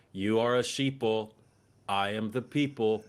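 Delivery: slow, deliberate taunt, each word spaced; slow mock lecture. Man on the plane taunting passengers, slow and deliberate. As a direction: drawl it out like a smug preacher. Retold stranger's slogan.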